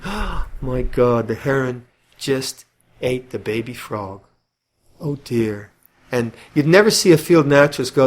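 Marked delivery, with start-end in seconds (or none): 0.0-5.7 mock sentimental dismay. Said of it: "sentimentality is thinking".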